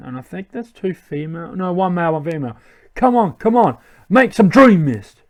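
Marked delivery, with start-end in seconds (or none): 2.9-5.2 mildly aggressive, higher demand; aggressive villain. Acted. Villain demanding Dream Mist from a Pokemon, mildly aggressive. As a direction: push it like an impatient villain. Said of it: "I'm gonna be very aggressive".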